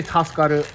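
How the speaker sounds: careful demo of "Taskaru"; teaching a word. Shown as a demonstration. Teaching friend the sneeze word, careful demo. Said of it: "You can say".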